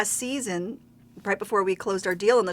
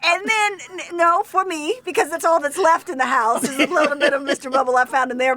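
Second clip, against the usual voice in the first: excited giggly; 6 semitones higher, 5 dB louder than usual. Real, not acted. Bubble bath story, laughing.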